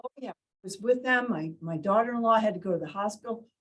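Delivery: quick, lightly acted conversational answer; chatty grandparent's reply. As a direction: answer readily, news tumbling out fast.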